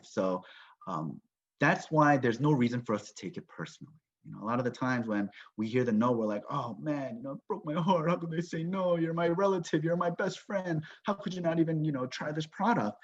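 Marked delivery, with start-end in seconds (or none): 6.5-13.0 mock-hurt protest, pitched a bit up; wounded, incredulous complaint, lightly acted; hurt and angry. Distributor taking a friend's no personally, hurt and angry. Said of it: "we get hurt and angry".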